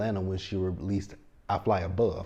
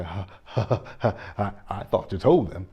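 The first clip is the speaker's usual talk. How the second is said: mock laughter. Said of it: "looking at him and laughing".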